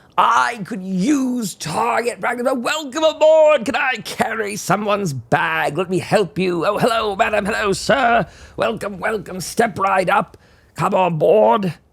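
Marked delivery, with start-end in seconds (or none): 6.7-11.8 showman's step-right-up carnival barker patter. A character welcoming people aboard, in a carnival barker call. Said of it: "maybe I should have been a carnival barker".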